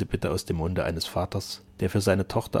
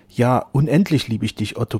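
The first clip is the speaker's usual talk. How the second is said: louder, higher protestation of love; earnest avowal; 3 semitones higher, 7 dB louder than usual. A narrator's reading. Flora assures Otto of her endless love, earnest avowal. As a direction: assure them with feeling. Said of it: "beteuerte sie".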